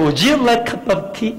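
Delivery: a slow, clumsy British accent try; failed British accent. Shown as a demonstration. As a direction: stumble through the British accent, very slowly. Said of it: "안 돼요, 제가 이 브리티시 액센트가". (잘 안 되는 영국식 억양, 아주 느리게)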